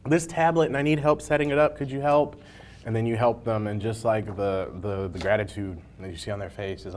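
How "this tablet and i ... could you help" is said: put-on older patron. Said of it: "and it's like".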